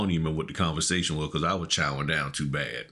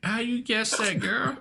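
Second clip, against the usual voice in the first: mock smooth talker. His own smooth reply retold.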